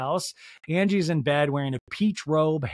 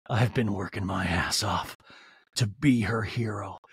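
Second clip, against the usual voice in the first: mock Sean; 9 semitones lower than usual. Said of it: "Angie's like".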